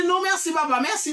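high, insistent no thanks; acted refusal. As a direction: refuse politely but firmly. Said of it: "M di". (refi ak vwa wo)

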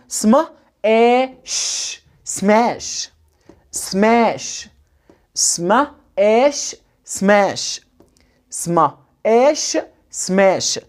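"سما ايش" in drawn-out parts, then joined as "سماش"; S and M together with no vowel between in "سماش"; blending drill. Shown as a demonstration. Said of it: "اعود ابني اقول عليها سما".

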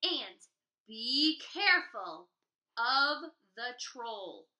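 a hint of a cautious mother, slow on troll; gentle mother warning. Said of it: "she said".

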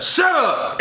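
high, falling imitation of an emphatic text; exclamation point. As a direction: punch it like a typed exclamation, not shouted. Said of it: "Exclamation point".

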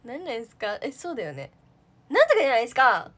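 fast, loud interviewer patter; pushy interviewer firing questions; interviewer imitation. Mocking herself as an interviewer, fast and loud. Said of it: "インタビュアーみたいにしたかった".

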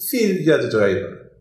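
ordinary talk

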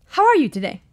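polite British man making small talk; British accent. Acted. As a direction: put on a courteous British voice. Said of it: "should we give him a different accent".

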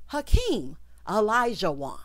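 Hakeem Olajuwon, slowly and fully sounded out; pointed name demonstration. Shown as a demonstration. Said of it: "I'm going to say this like I said".

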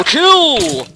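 high, loud battle cheer; excited yell. Real, not acted. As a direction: cheer it on wildly. Cheering on a skeleton.

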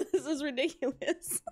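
laughing. Real, not acted. Confused by pronunciation.

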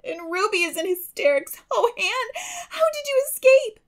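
put-on high girl's voice, sobbing and laughing; a young girl weeping with relief. A narrator's reading. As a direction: cry it out in tearful relief. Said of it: "weeping with relief and delight".

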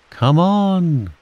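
sustained storybook holler; calling out. A narrator's reading. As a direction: relay the call with a long ON. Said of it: "called Owl".

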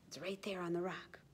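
hushed secretive whisper; suspense whisper. A narrator's reading. Suspense moment in story.

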